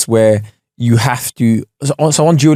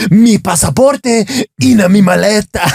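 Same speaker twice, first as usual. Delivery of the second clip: passionate app voice; 6 semitones higher than usual. Retold or imitated. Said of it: "I sound so passionate about saying these things".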